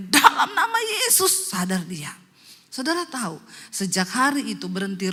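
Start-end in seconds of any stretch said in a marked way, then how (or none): 0.1-1.5 mild mock shout. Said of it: "suaminya teriak".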